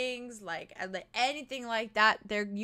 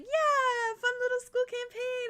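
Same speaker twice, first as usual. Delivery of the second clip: mocking naive players; 11 semitones higher, 4 dB louder, slower than usual. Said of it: "everyone was very much like".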